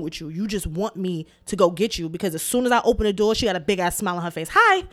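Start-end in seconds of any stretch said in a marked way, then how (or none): 4.5-4.8 put-on high, bright little-girl "hi, hi"; imitating her daughter. Mother imitating her smiling daughter at the door, high cute greeting. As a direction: sing it like a grinning toddler. Child greeting with big smile.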